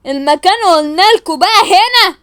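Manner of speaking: mock gangster stretching every word; changed kidnapper voice. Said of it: "أنا بعرف أغير صوتي قوي". (صوت خاطف مستعار، عالي وبطيء جدا)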